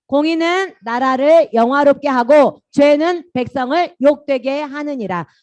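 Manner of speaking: slow, loud, high chanted verse; loud group recitation. Shown as a demonstration. Pastor leading children reciting a Bible verse, slow and loud. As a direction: recite it word by word like a class reading aloud together. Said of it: "공의. 시작".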